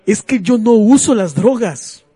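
mock dramatic poetry recital; hammy stage actor. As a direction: overwrought recital with long pauses. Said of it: "voy a hacer una declamación".

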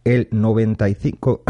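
words catching in the throat; choking on it mid-sentence. Real, not acted. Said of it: "me atraganto porque me impacta".

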